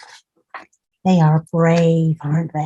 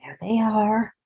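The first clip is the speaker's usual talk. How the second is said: whisper; 2 semitones higher, 5 dB quieter than usual. Real, not acted. Hushed aside to child.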